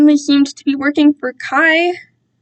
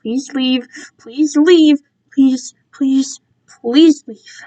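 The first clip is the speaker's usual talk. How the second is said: desperate pleading; 2 semitones higher, much slower than usual. Acted. Silent pleading thought.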